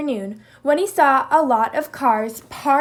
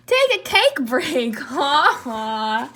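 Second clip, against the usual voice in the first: slow playful pun ending in laughter; joking with laugh; slower than usual. Acted. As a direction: Kangaroo joking about cake, laughing. Kangaroo joking.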